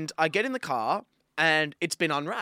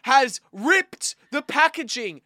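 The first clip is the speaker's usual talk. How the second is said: higher, slow, indignant burst at the thief; angry outburst; 9 semitones higher, 8 dB louder, slower than usual. Real, not acted. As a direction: spit out fuckhead in disgust. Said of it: "because I'm really fucking mad".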